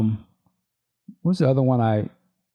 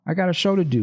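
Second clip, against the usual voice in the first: Vanity pulling away; 6 semitones higher, faster than usual. Acted. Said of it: "And Vanity's like".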